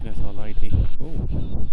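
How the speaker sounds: loud delighted exclamation with an ooh; surprised. Real, not acted. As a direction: call out at the discovery, then ooh. Finds a statue, exclaims.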